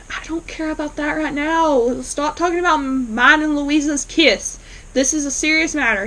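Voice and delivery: retold impatience. Martin brushing off Aunt Sarah's gossip, mock impatient.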